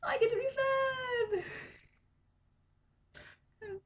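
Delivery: high, fast squealing delight, almost crying out; a tiny pet fish thrilled it's breakfast time; excited fish voice. Retold or imitated. Owner voicing her fish at the alarm, high squealing joy. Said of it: "I can see him going".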